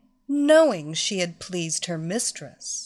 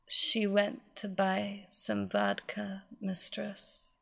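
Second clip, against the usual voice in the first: soft, meek and obedient; submissive; 6 dB quieter, slower than usual. Acted. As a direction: answer meekly, barely audible. Slave answers obediently.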